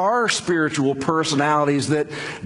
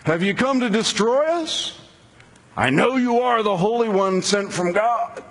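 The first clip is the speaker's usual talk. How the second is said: demon's shout; 7 semitones higher than usual. A narrator's reading. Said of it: "and he began to shout".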